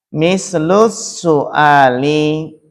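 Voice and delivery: slow reading. Shown as a demonstration.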